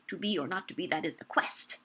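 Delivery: "To be or not to be, that is the quest" ending hard on "quest"; iambic stress on QUEST. Shown as a demonstration. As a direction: stop dead on the stressed "quest". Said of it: "if it were a perfect iambic pentameter line".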